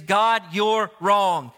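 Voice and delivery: emphatic acted accusation, mildly angry; Jonah accusing God. Preacher as Jonah telling God off, indignant. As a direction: stubbornly throw the blame back. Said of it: "what he is saying here is".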